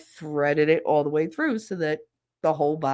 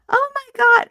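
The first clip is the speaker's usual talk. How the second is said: loud, high-pitched mock squeal of shock; shocked friend; 9 dB louder than usual. Friend opens the worm container, shocked. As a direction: mimic a grossed-out friend crying out.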